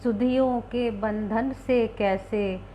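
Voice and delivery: slow, measured Hindi poem reading; slow recitation of a wistful Hindi poem. Acted. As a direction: let each line of the poem linger, slowly.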